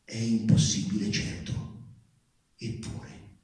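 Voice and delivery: through clenched jaws, sinking from murmur to whisper; horrified and delighted, barely breathing the words out; a hushed first thought fading into a whisper. A narrator's reading. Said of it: "riesco a bisbigliare il mio primo pensiero".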